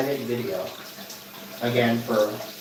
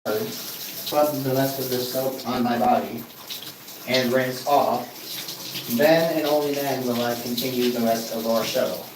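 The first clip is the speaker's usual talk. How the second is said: speaking from inside the shower; talking in the shower. Real, not acted. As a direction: voice over running shower water. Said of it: "because I'm in the shower right now".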